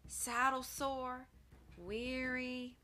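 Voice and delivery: a touch of a soft, slow cowboy drawl; a hint of a weary rider angling for cake. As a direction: lay it on, pleading for cake. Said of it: "in his soft drawl".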